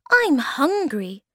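high, slow little creature voice; loud little squeak; tiny creature. A narrator's reading. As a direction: draw it out in a high, small voice. Tiny creature Thingamy speaks.

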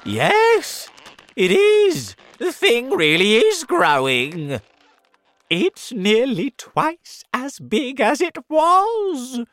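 very high, loud excited yell; aunt shouting as the peach swells. Acted. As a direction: insist with growing thrill. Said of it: "Aunt Spiker shouted".

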